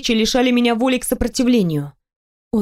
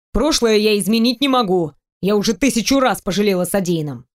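lightly voiced man. Teasing the heroine about undressing, lightly lowered male voice. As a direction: tease her, playful and sure. Male character defending himself.

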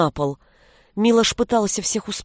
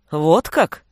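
low scoffing question; 4 semitones lower than usual. A narrator's reading. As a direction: scoff at it dryly. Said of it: "хмыкнул Волхв".

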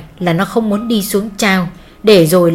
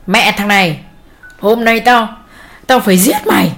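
put-on drunken threat. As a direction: curse and threaten the boy. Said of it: "Mồm bố nó vẫn liên tục chửi".

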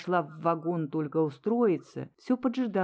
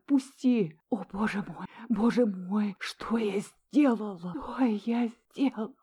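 despairing sobs; 3 semitones higher than usual. A narrator's reading. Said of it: "рыдая".

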